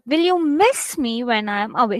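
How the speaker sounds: "miss" stressed instead of the final word; different stress. Shown as a demonstration. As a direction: lean on "miss" and ease off on "away". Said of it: "there's different ways".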